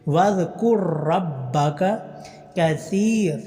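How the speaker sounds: slow drawn-out tajweed chant; slow tarteel recitation; Quran recitation. Shown as a demonstration. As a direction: recite each vowel long and measured. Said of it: "سا کو لمبا کرنا ہے".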